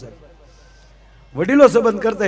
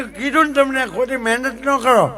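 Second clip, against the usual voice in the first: calm dismissive; 4 semitones higher than usual. Retold or imitated. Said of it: "એ કે".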